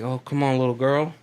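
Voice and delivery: sly Southern uncle voice; Southern accent. Retold or imitated. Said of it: "I'm doing this in a Southern accent".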